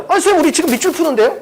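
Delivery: quick, high-pitched mock protest to the teacher; objecting student. Student questions the teacher during underline problems, mock objection.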